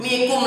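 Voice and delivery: waalaikum worn down to "mikum"; clipped-off greeting. Shown as a demonstration. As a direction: drop the front of the greeting, leave only "mikum". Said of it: "Itu habis udah". (salam dipotong jadi "mikum")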